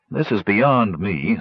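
slow, tired sigh of a line; weary. Acted. Sturm gives up on the gnomes' numbers, slow and weary. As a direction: let it drag like he's worn out. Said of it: "Sturm said wearily".

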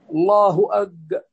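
slow, cut-off الله أك with k made a hard g; kaf turned qaf. Shown as a demonstration. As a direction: break off at "ag" in أك, the k backed to qaf. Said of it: "في ناس يقولون هكذا". (نطق كاف "أك" قافا مع قطع الكلمة)

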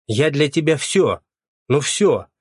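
usual speaking voice

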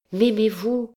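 put-on high, girlish rising question; young woman's voice. A narrator's reading. Gypsy girl asking her captain for love, high and eager.

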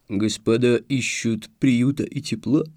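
медленный басовитый голос; пробасить вкрадчиво и медленно; низким басом. Acted. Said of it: "неожиданно низким голосом пробасил субъект". (неожиданно низкий бас)

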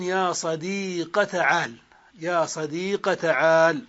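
صديق ends in a short a, no ya; fatha ending. Shown as a demonstration. Teacher showing the sixth dialect form, fatha ending. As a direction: close صديق on a short a, slowly. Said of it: "بحذف الياء وفتح ما قبلها".

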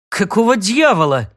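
gasping oath. Acted. Second jolt, Sid curses in high alarm. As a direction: blurt it out, alarmed. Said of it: "Сид снова ахнул".

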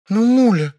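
high, loud indignant whine; whining. A narrator's reading. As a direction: wheedle and protest. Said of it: "возмущённо законючила Вера".

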